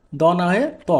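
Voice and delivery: "ত" said as a t sound, not "দ"; ত in place of দ. Shown as a demonstration. Teacher correcting the consonant for Korean learners, ত in place of দ. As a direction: sound "ত" as t where "দ" would be d. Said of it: "এখানে উচ্চারণটি হবে আমাদের".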